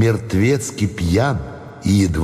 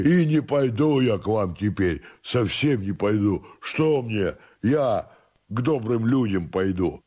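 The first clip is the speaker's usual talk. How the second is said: soft, higher-pitched tipsy obstinacy; defiant drunken servant; 5 semitones higher, 5 dB quieter than usual. Acted. Drunken servant refuses master and moralises, soft stubborn voice. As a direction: refuse quietly and doggedly, moralising.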